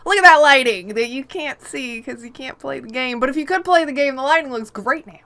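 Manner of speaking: gleeful, clueless developer; mocking Bethesda. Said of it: "Bethesda's like".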